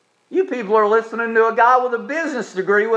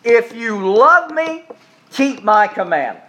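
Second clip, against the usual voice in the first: calm. Retold or imitated. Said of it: "Jesus says this calmly".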